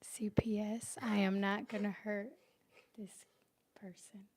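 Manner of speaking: deliberate, broken-up mock pledge; mock solemn assurance. Partner assures the camera no one gets hurt, mock solemn. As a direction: pledge it to the camera with measured pauses.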